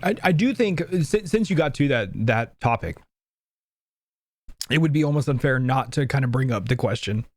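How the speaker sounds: talking through a choke on water; trying to speak after water went down wrong; choking on water. Real, not acted. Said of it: "I'm choking on water somehow".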